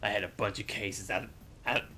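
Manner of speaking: a hint of a gumshoe's voiceover; noir detective. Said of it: "Noir style".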